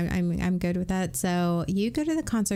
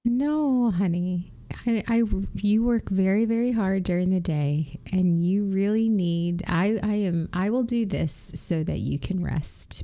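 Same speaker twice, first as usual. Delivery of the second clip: sincere. Shown as a demonstration. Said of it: "You say it so sincerely".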